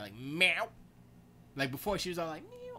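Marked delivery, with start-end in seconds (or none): 0.1-0.7 put-on loud, higher, rising old-cat yowl; old cat meow. Demonstrating the twenty-year-old cat, loud old meow. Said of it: "She got an old cat meow". 2.4-2.8 tiny, very high, soft mew; timid meow. Retold or imitated. How the cat was before, timid meow. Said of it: "all timid".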